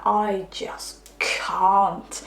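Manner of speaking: breathy whispered quote, barely voiced; hushed despair. Client at the end of her rope, whispered. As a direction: whisper it as if worn out.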